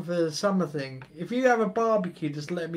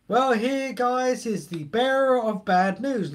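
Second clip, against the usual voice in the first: louder, slower, herald-like bearer of bad news; mock announcement; 4 semitones higher, 5 dB louder, slower than usual. Streamer to viewers about snow, mock solemn announcement.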